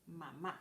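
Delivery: mamá with a rise on the last A. Shown as a demonstration. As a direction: lift the end of Mamá. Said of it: "a little bit higher".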